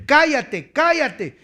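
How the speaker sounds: high, sharp command to hush; scolding shout. Acted. Crowd rebuking the blind beggar, scolding loudly.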